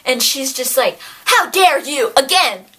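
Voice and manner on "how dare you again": mock indignation. Acted scolding of the killer.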